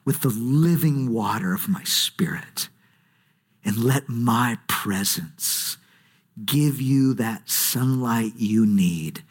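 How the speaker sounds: low, slow, tender, sinking to a whisper; God speaking. Acted. God inviting his people to the deep well, low and whispered. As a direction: speak as God, intimate and unhurried. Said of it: "God would say".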